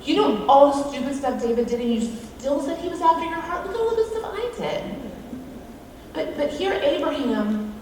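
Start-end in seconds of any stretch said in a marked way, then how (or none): 0.0-4.8 whiny complaint. Retold or imitated. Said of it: "go to God and go".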